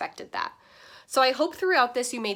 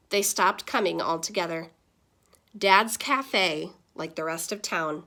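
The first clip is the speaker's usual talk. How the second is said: put-on lively read-aloud to kids; animated classroom storytime voice; story narration; 4 dB louder than usual. A narrator's reading. Reads picture book aloud.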